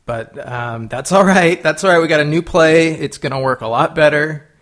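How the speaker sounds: rallying coach in the huddle; halftime pep speech. Acted. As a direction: pump up the team like a coach.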